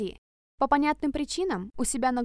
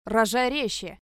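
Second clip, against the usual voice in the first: barking; slower than usual. Acted. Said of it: "рявкнул, теряя терпение".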